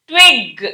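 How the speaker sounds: ట్విగ్ with a clearly released hard "g"; ట్విగ్ as a careful teaching word, firm final g; final G sound. Shown as a demonstration. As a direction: show the g that closes ట్విగ్. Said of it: "sound గానే పలుకుతాం".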